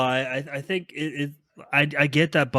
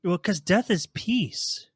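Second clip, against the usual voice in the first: mock profound; 5 semitones higher, much slower than usual. Joking dark philosophy to friends.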